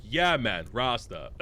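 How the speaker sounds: imitating a bad movie Jamaican accent; half-hearted put-on Jamaican accent; attempted Jamaican accent. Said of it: "somebody trying to do a Jamaican accent".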